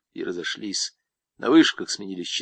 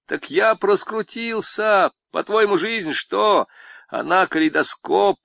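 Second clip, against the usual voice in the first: lightly voiced swaggering con, pitched up; boastful convict; 4 semitones higher, 4 dB louder than usual. Convict brags to Zamaraev about women, lightly voiced. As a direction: brag like a cocky camp inmate.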